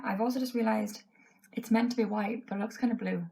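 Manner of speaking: losing her voice, hoarse and thin. Real, not acted. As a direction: voice going, scratchy and hoarse. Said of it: "My voice is just going".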